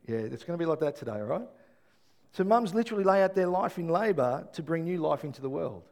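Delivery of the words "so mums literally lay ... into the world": louder, driving the point home; emphatic repeat. Shown as a demonstration. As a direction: say it again with force, louder. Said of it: "You gotta get the picture".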